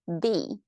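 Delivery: lone "B" with a steep fall; fourth tone. Shown as a demonstration. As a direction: drop the pitch right through "B". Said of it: "how the fourth tone sound like".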